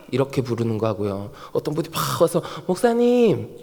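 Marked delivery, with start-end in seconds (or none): 2.7-3.6 friendly call. Acted. Congregant comes up to greet the pastor, friendly call. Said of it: "벌써 느낌이 완전히 다르죠".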